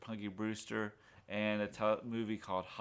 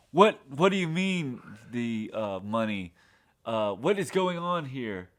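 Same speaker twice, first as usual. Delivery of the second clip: bewildered dad; 7 dB louder than usual. Retold or imitated. Dad voiced, confused at robbery.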